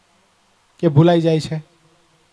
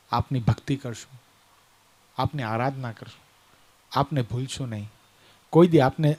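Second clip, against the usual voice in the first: low, subdued, sorrowful pleading; understated acted remorse, without sobbing; tearful confession; 6 semitones lower than usual. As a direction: confess humbly in a lowered voice. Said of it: "રડતા નેત્રે કીધું છે".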